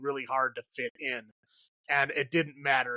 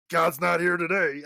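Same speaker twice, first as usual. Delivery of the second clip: mock Texas accent, louder; lightly done Texas accent on a German character; 4 semitones higher, 4 dB louder than usual. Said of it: "like, a Texas accent".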